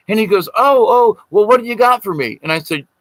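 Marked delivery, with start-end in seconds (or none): 0.6-2.4 high, louder, delighted "oh, oh"; can't wait to see the gift; eager excitement. Retold or imitated. Doc learns the storyteller brought him something, high and thrilled.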